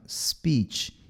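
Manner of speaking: SPEECH starting straight on a soft hiss; soft pure S. Shown as a demonstration. Teacher models impure S for learners, soft S. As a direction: begin "Speech" on S with no vowel before it. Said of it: "Ele é bem suavezinho".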